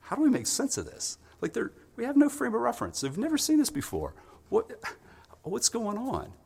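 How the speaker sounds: high-pitched, baffled questioning; bewildered. Acted. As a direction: act out men who can't make sense of it. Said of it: "they don't know how to put it together".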